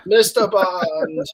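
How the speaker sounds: slow, lightly voiced villain sneer; mock Bond villain. Mocking the actor's Bond villain, slow and sneering. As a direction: drag it out like a cartoon villain. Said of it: "guess what he talked like".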